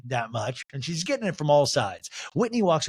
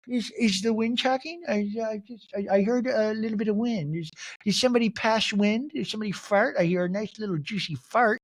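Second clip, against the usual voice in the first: high, halting put-on puzzlement; Meredith impression; 7 semitones higher than usual. Castmate pretending her rival is just wind, mock puzzled. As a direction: feign hearing nothing, pitched up and stammering. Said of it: "Meredith's like".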